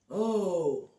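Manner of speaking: ordinary delivery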